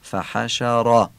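فحشر slowly, with a thick, full r; heavy r. Shown as a demonstration. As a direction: fill the r of فحشر. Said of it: "تفخیم کنیم".

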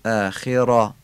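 اخرا ending in a dark, backed "rɑ"; heavy fatha. Shown as a demonstration. Teacher demonstrating the fatha of اخرا, heavy vowel. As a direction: thicken the last vowel of اخرا.

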